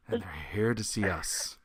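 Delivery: low, soft admission; grim deadpan. Retold or imitated. Musician admits whom the Nazis came for, grim deadpan. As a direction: drop it quietly, resigned.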